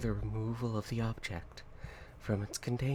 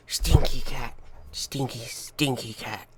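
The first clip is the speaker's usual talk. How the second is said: loud then slow teasing; 11 dB louder, slower than usual. Real, not acted. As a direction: tease the stinky cat. Teasing the cat.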